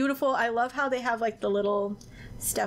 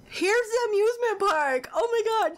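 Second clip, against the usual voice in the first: excited exclaim; 9 semitones higher than usual. Real, not acted. Finally finding the amusement park.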